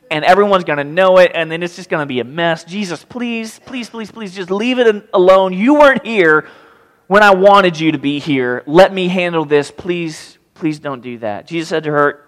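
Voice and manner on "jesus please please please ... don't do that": pleading. Acted. Sister of the dead man begging Jesus, pleading. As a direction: beg in a rush, swelling to reproach.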